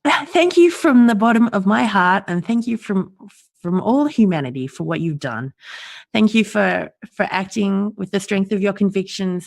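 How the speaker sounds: heartfelt, choking up slightly; emotional thanks. Real, not acted. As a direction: voice lifted, near tears. Tearful thanks to Julian.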